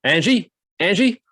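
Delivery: high, slow put-on Russian menace; Russian oligarch voice. Oligarch mocks Brad Pitt on the phone, in a hammed-up Russian accent. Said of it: "he phones up".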